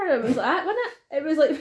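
high cackling hyena laugh; hyena cackle. Pretend. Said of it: "Let's see your hyena impersonation".

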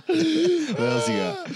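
laughing. Real, not acted. Laughing hard after the joke.

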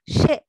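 put-on "シェ" as old Nagasaki speakers say せ; 長崎なまりの発音. Shown as a demonstration. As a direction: say "シェ" for せ, with a sh sound. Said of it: "さしすせそのせがシェになる". (「シェ」と、せをシャ行の音で)

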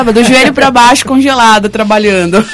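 falando entre risadas; rindo. Real, not acted. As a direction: conta a piada rindo. Brinca sobre estar congelada. (rindo enquanto fala)

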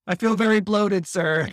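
high, loud complaint in fake French accent; mock French accent. Prisoner pleading bloating to the official, in a mock French accent. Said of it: "he would say in a French accent".

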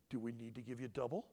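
low, controlled parent voice; methodical. Acted. Dad questioning his child before a spanking, calm and methodical. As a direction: question the child calmly, without emotion. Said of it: "it's very methodical".

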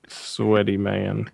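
slow breathy whisper. Real, not acted. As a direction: whisper it slowly. Joking about being sweaty.

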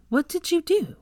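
very high, insistent question; accusing demand. A narrator's reading. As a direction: demand it sharply, pitched right up. Accusing a second boy.

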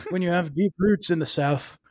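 lightly voiced Southern actor; Johnny Depp. Repeating the actor's trial answer, lightly done Southern impression. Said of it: "That's a great Johnny Depp".

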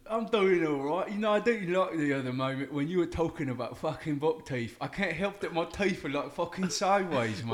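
Welvin character voice. Acted. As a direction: complain indignantly in a British character voice. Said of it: "who's this Welvin dude".

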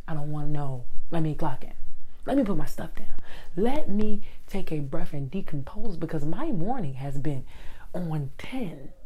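heated rant. Real, not acted. Rant about not talking before clocking in.

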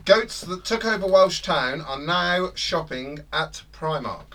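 news read. Shown as a demonstration. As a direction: read the headline straight this time. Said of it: "I'll say that again".

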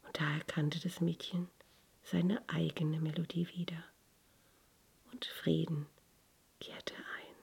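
whispered, reverent storytelling; hushed story narration. A narrator's reading. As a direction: breathe the ending like a secret. Whispered climax of tale.

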